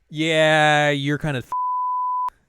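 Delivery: high, slow and drawn out; smug mock announcement. Rufus telling everyone they're done, slow high smugness. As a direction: stretch it out like a smug reveal. Rufus voiced shutting things down.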